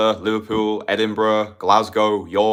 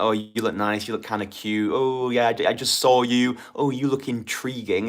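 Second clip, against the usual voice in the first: lukewarm compliment; 2 semitones higher than usual. Acted. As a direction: offer weak praise without real desire. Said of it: "the lukewarm compliments".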